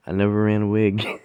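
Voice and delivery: laughing through the line. Real, not acted. Telling listeners the story's end, laughing. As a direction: chuckle it out, amused.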